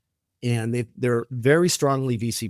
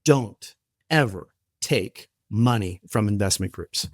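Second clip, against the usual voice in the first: teary retold plea; 2 semitones lower than usual. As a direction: lightly voice the CEO's tearful warning. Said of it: "with tears in his eyes".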